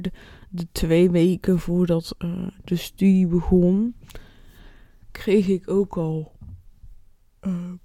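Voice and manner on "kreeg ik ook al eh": slow, stretched words through a yawn. Real, not acted. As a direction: speak while fighting a yawn. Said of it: "sorry, ik moet gapen".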